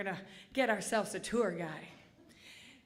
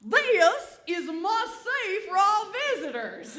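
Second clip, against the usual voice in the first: higher and louder, laughing robotic guide voice; mock GPS announcement; 7 semitones higher, 7 dB louder than usual. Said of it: "And then Steve again would say".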